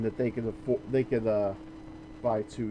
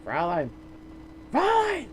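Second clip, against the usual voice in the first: put-on German accent; 7 semitones higher than usual. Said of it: "I can do better German accent than you".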